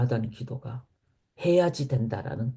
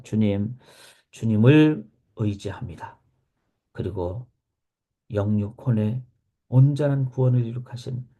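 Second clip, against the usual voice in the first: lower, measured prayer voice with pauses; closing prayer; 4 semitones lower than usual. Real, not acted. Preacher prays to the Lord for true healing, closing prayer.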